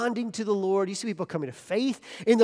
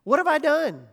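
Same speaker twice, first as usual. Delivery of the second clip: retold yelling; 5 semitones higher than usual. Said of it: "I start yelling at the Lord".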